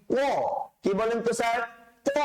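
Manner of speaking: ক said thick and full; thick, rounded ক; heavy pronunciation. Shown as a demonstration. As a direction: give ক a heavy, full-mouthed sound. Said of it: "মোটা করে পড়তে হবে".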